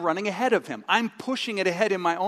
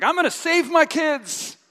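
determined parent; 6 semitones higher than usual. Retold or imitated. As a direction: vow it through clenched resolve.

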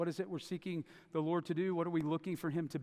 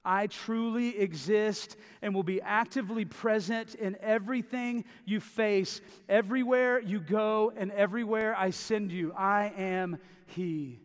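bold, emphatic; 3 semitones higher, 4 dB louder than usual. Retold or imitated. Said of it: "It's strong, bold, emphatic".

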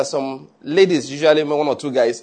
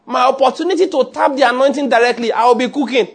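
Mary, voiced; 6 semitones higher than usual. Preacher voices Mary to Martha.

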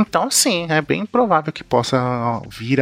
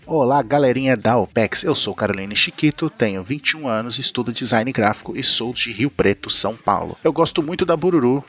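Italian accent. Shown as a demonstration. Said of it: "Eu falando com o sotaque italiano do Projac".

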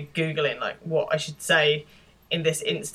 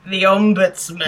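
horror trailer voice; 3 semitones higher, 6 dB louder than usual. Pretend. Mock horror trailer announcement.

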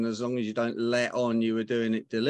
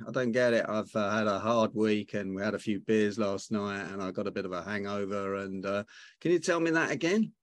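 playing dumb; 2 semitones lower than usual. Negotiator showing his dumb-is-smart tactic, mock confusion. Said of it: "your version of being ditzy".

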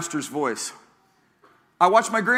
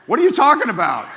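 high, loud indignant rabbit squeak; comic rabbit voice; 6 semitones higher, 7 dB louder, faster than usual. Retold or imitated. Pastor voices the rabbit, loud and high with a laugh. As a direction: play the outraged rabbit for a laugh. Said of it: "That rabbit's going".

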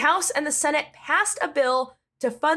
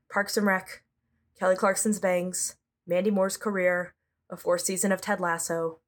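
happy place daydream; 5 semitones lower, 3 dB quieter than usual. Pretend. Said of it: "I have to go to my happy place".

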